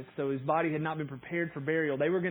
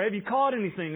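mildly raised, higher calling-out; retold yell; 5 semitones higher, 4 dB louder than usual. Jesus yells out to fishermen from the shore, mild retold yell. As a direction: imitate a call out to a boat, lightly raised. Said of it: "he yells out to them".

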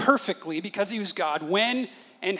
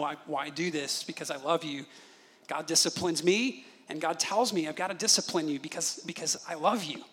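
softer, tender dad voice; gentle fatherly explaining; 2 semitones lower, 6 dB quieter than usual. Retold or imitated. Father to his son before a spanking, gently reassuring. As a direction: explain it softly to a child you love.

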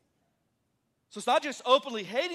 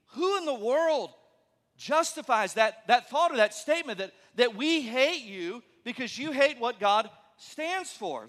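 incredulous; 2 semitones higher, 4 dB louder than usual. Retold or imitated. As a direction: ask it like you can't believe anyone thinks this. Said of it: "we're thinking".

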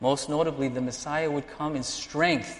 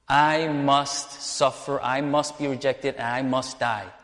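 slow, drawn-out solemn declaration; solemn Jesus; slower than usual. Acted. Preacher as Jesus foretelling his death, slow and solemn. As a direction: stretch it out slowly and deliberately, acting out Jesus. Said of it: "So Jesus says".

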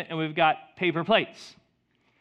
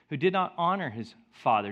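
ordinary talk, nothing marked

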